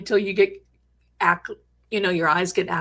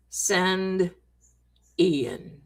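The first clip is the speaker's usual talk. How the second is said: slow, with Ian sinking much lower; eerie recorder voice, deeper; 3 semitones lower, 4 dB quieter than usual. Retold or imitated. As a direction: let the name drop into a ghostly low. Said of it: "this voice comes out and says".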